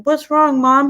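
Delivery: put-on high, sweet little boy voice; eight-year-old son. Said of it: "my eight-year-old, comes running out".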